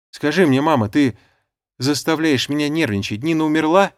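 high, loud and desperate; desperate shout. A narrator's reading. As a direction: cry out in despair. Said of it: "прокричал я опять в отчаянии".

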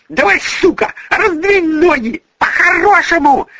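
put-on jealous girl screaming at the other woman; screaming abuse. A narrator's reading. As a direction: tear into her rival. Furious girl attacking rival woman.

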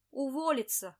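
a loud barked order; shouted. Acted. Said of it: "выкрикнул он".

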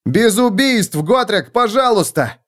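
pleading. Acted. Felix pleads with Gotrek.

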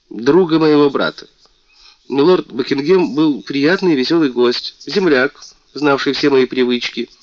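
высокий, звонкий голос обиженной принцессы; жалуйся, как оскорблённая принцесса; мультяшная принцесса. Acted. Принцесса жалуется королю. (принцесса жалуется королю, звонко и обиженно)

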